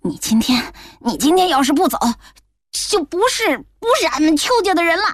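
angry grandmother. Acted. Grandmother threatening son.

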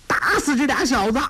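put-on high, furious boy's cry; angry yell. A narrator's reading. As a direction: order the gang after them. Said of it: "都史怒叫".

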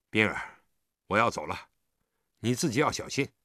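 low, tender farewell; gentle parting. A narrator's reading. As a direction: speak low and caring. Gentle goodbye after child cries.

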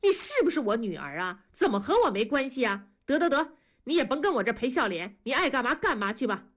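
mother suddenly snapping at daughter, quick; flaring up. Acted. Mother scolding her grown daughter, quick and cross. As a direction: scold fast and sharp, a mild flare of temper. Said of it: "文丽忽地火了".

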